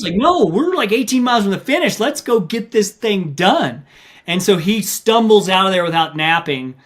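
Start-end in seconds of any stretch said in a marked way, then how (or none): 0.1-3.8 competitive wife urging. Retold or imitated. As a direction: egg him on like a competitive wife.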